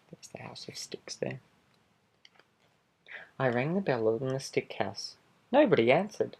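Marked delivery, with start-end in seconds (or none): 3.4-5.2 a lightly voiced sly wolf telling his side; charming wolf pleading innocence, animated; wolf narrator. Wolf narrating his own story.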